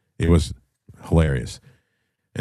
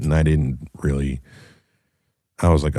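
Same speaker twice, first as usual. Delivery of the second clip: normal talking voice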